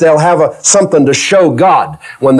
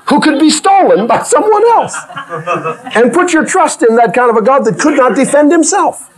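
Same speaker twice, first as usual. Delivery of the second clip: laughing; 9 semitones higher than usual. Real, not acted. Laughing through the point.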